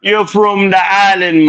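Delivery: high, slow island lilt; imitating Jamaican accent. Asking the Uber driver about the island in Jamaican lilt. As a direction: draw it out like a Jamaican. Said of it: "I said".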